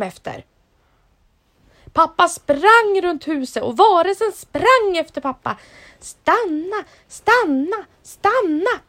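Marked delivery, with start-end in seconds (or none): 6.0-8.8 high, loud repeated call; the creature running after the dad, calling. Acted. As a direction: chase him with the call. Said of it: "ropade varelsen".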